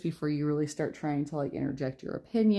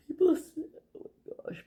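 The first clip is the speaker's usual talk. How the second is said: words broken by a yawn; 12 semitones higher than usual. Real, not acted. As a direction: talk through a yawn. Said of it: "Sorry, I keep yawning so much".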